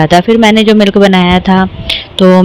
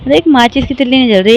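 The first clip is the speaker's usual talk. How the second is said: exasperated; 5 semitones higher, faster than usual. Real, not acted. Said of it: "मेरे को इतनी हंसी आ रही है".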